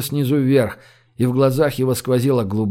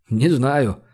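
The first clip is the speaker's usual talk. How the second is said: usual speaking voice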